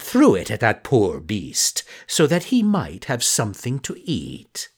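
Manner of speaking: slow, hammed-up sly fox; a fox spinning a pitiful lie; sly fox storyteller. The fox tells a false tale.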